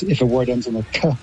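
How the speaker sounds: ordinary talk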